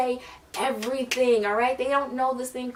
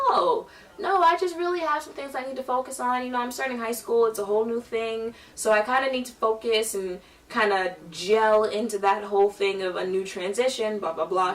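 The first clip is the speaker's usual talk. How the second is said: polite excuse. Retold or imitated. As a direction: fake a polite excuse brightly. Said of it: "out loud, I was like".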